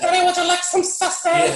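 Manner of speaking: high, loud mock film character; put-on high, loud voice; acted film quote. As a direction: belt it out high like a silly movie quote. Quotes the film's sausage line.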